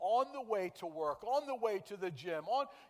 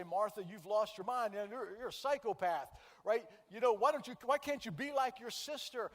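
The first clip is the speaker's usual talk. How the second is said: a hammed-up harsh rebuke, louder; mock scolding; 4 semitones higher, 6 dB louder than usual. Preacher mimics the scolding Jesus never gave, mock harsh. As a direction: pretend to tell Martha off, half joking.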